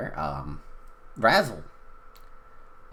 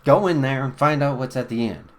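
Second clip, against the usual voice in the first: loud order; 5 semitones higher, 8 dB louder, faster than usual. Acted.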